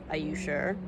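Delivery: soft, careful warning; quiet, wary caution. Acted. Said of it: "Atia cautioned".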